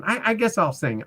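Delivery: mock her grudging give-in, lifted up high; the retired pro finally agreeing to sing, grudgingly; grudging singer. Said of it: "She's up there going".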